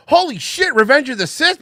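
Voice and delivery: high, loud fake fan gushing; mock fan excitement. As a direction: gush like a starstruck fan. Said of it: "walk up and go".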